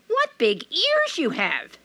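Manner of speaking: put-on high, slow, wondering girl; a child's uneasy wonder; high hesitant girl's voice; little girl voice. Red Riding Hood speaks.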